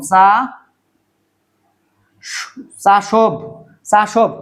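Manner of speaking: চাসোভ sounded out, ending in voiced bh; expected v pronunciation. Shown as a demonstration. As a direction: break off after চা, then give চাসোভ as cha-shobh. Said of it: "উচ্চারণটা হওয়ার দরকার এরকম".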